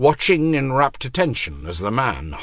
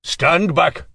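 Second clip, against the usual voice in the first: shouting; 8 semitones higher, 4 dB louder than usual. A narrator's reading. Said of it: "Nakor's voice shouting".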